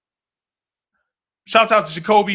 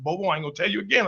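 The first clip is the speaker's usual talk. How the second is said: firm grandma warning; 7 dB quieter, much faster than usual. Retold or imitated. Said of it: "She said".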